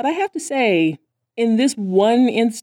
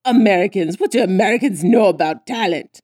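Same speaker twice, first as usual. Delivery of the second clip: sneering scorn. Retold or imitated. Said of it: "And she's like".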